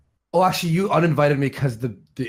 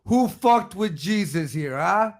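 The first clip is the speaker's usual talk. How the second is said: mock Jewish accent; 6 semitones higher, slower than usual. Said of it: "I'm gonna go".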